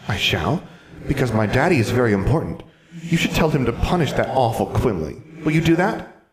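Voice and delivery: put-on high, loud, demanding child voice; a pampered child demanding revenge; spoilt ghost girl. Ghost girl asking Alexandra to punish Quimley, high demanding child voice.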